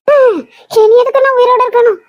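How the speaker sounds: sobbing, emotional blackmail wail; fake crying. Mother wails at daughter to guilt her into staying home, fake sobbing. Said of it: "உன்னோட இந்த emotional blackmail".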